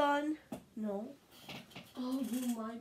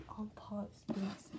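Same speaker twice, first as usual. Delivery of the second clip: whisper; 3 semitones lower, 6 dB quieter, slower than usual. Real, not acted. Whispered plea.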